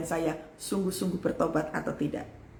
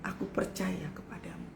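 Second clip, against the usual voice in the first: soft whispered declaration of trust; whispered prayer; 2 semitones lower, 11 dB quieter than usual. Shown as a demonstration. Preacher demonstrates trusting prayer, whispered. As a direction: breathe it out quietly. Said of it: "untuk mengatakan".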